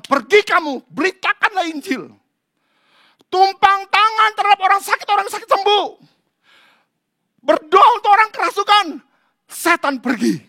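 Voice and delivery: high, loud, fiery proclamation; proclaiming scripture. Acted. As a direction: thunder the commission to the church. Scripture proclaimed at full force. (membacakan ayat dengan berapi-api)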